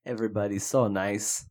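hammed-up Canadian accent, eh on the end; a clumsy Canadian accent; bad Canadian accent. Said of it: "your Canadian accent, that was terrible".

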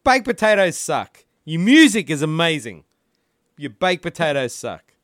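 angry rant. Real, not acted. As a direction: let it all out. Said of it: "This is Rant, Rant McCubbin".

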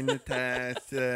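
menacing. Retold or imitated. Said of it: "I find you on here".

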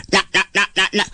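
low, staccato knock-knock; knocking sound. A narrator's reading. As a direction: imitate quick raps on a door. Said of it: "He knocked on his cave".

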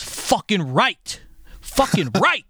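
loud, high, drawn-out exclamation; retold excited cheer. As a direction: imitate a friend's emphatic, emotional cheer. Retelling friend's excited hugging reaction.

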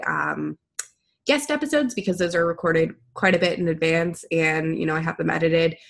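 congested, stuffy nasal voice; blocked nose. Real, not acted. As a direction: talk through a stuffy head cold. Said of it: "I'm kind of congested right now".

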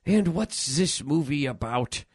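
lightly voiced old man, slowed down; a hint of a slow, innocent old actor; sweet old man. Old actor asking about his film, lightly voiced old man. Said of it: "like, a sweet old man".

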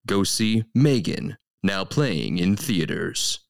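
dramatic trailer announcer read; movie trailer voice. Pretend. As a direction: narrate like a movie phone promo. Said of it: "I'll just give you my movie phone voice".

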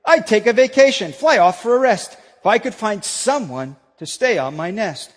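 lively read-aloud storyteller voice; story reading. Acted. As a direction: read it like a children's story to the congregation. Pastor reads Seuss story aloud.

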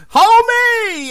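high, loud delighted call; a fan hyped about a rapper, shouting with delight; excited shout. Real, not acted.

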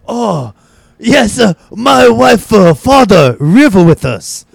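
put-on high, slow caricatured Asian accent. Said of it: "doing a really thick Asian accent".

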